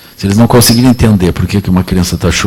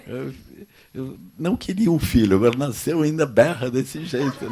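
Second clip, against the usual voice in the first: higher, half-laughing grumble; mock complaint; 6 semitones higher, 11 dB quieter than usual. Parent who never wanted a child complains about its crying, mock whining. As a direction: whine about the baby, tongue in cheek.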